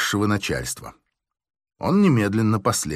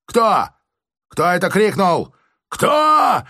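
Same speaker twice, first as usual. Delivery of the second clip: very high, loud roar; major roaring; 7 semitones higher, 4 dB louder, much slower than usual. A narrator's reading. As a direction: roar the question at the crowd. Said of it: "заревел майор". (майор ревёт на толпу, очень высоко)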